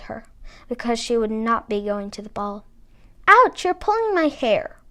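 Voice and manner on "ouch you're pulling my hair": sharp pained high yelp; yelled. A narrator's reading. Stepsister yelping at Cinderella while she styles her hair. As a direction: cry out as your hair is yanked. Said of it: "yelled one stepsister".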